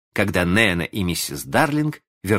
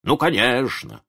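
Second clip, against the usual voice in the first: drawn-out, raised-pitch sarcasm; indignant cry; 7 semitones higher than usual. A narrator's reading. Jealous father as the dog gets hugged, indignant. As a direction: exclaim it slowly, wounded. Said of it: "закричал он".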